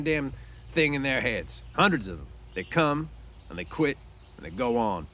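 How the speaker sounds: bitter, dismissive talk about dreams; scornful Crooks. Acted. Crooks scoffs at Lenny's dream of land, scornful. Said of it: "Crooks was scornful".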